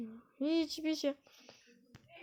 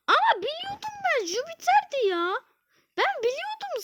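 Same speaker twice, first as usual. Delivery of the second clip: high, breathy whimper; 10 semitones higher than usual. Real, not acted. Gamer whimpering over a missed answer. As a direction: whimper as if about to cry. Mock crying over loss.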